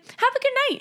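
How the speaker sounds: high, light sign-off, imitating him; breezy, unbothered high goodbye; super calm. Imitating Lou as he just leaves, super calm. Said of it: "super calm, super, like".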